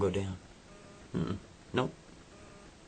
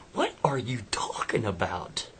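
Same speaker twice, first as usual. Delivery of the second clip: whisper. Acted. She whispers in disbelief.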